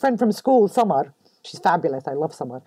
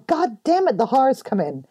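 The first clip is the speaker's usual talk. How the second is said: exasperated curse; 5 semitones higher than usual. Retold or imitated. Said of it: "And you just go".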